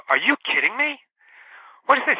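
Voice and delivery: high, disbelieving outburst at the note; incredulous brother. Retold or imitated. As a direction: react like you can't believe what you're reading. Brother finds the revenge note.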